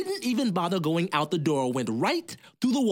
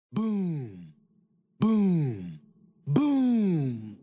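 distant booms; much slower than usual. Acted. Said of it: "It sounded something like".

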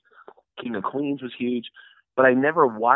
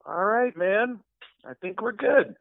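higher voice, politely wrapping up; Seth MacFarlane; 8 semitones higher than usual. Retold or imitated. Seth ending the short session, higher imitated voice. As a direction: imitate a boss calling it done. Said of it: "Seth MacFarlane goes".

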